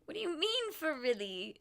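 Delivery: rising, puzzled repeat of her slip; mock disbelief. Narrator retells her baffled reply to a friend. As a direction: tease a friend's odd phrase. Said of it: "And I was like".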